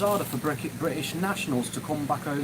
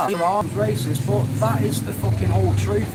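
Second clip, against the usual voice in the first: louder, pushing the words out hard; heated rant; 4 semitones higher, 5 dB louder than usual. Real, not acted. Vlogger venting to his audience, loud heated rant. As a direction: hammer home the fucking whole truth.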